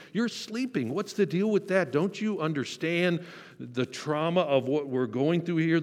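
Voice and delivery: a shrill, desperate complaint to the sleeping master; shrill panicked plea. Retold or imitated. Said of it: "there was this shrillness to their voice".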